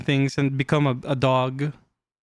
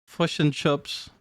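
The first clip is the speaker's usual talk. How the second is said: slow, tentative Kiwi vowels; attempted Kiwi accent; slower than usual. Shown as a demonstration. Streamer unsure how to do a Kiwi, tentative Kiwi accent. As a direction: try out a Kiwi accent slowly. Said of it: "I don't know how to do a Kiwi".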